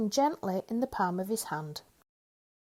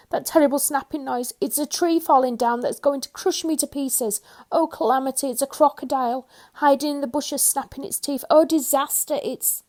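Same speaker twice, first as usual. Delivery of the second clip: high, loud terrified rant; panicked babble; 6 semitones higher, 6 dB louder than usual. A narrator's reading. Mister Jelly imagining a crocodile, shrieking high. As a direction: spiral into panic.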